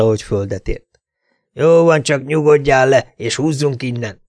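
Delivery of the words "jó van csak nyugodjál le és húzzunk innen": acted shout, fading. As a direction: call out to your partner, then drop it. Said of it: "kiáltotta a másik". (felkiáltás, ami lecsendesedik)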